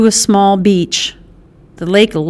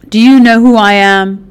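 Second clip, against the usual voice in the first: sneered; 5 dB louder than usual. Acted. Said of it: "Carlotta sneered".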